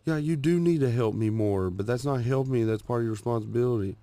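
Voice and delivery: mildly heated wife imitation; retold yelling. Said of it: "while she was yelling at me".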